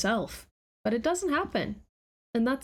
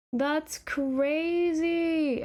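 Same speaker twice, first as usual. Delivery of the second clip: amazed; 6 semitones higher, much slower than usual. Real, not acted. Realising six years passed.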